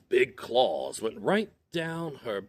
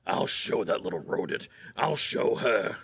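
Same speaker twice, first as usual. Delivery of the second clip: grumbling bear. Acted. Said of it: "grumbled to himself".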